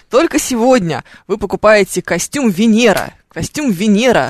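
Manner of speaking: slow, hyped shopping channel pitch; infomercial host. Retold or imitated. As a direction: sell it like a TV shop presenter. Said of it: "магазин на диване".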